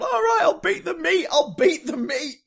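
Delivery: high, loud manic yell; manic shout. Retold or imitated. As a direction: bellow it in a frenzy. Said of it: "So I start hitting him".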